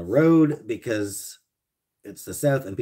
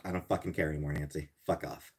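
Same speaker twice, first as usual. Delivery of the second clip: sulky grumble; 5 semitones lower, 11 dB quieter, faster than usual. Pretend. Grumbling at chat after rant.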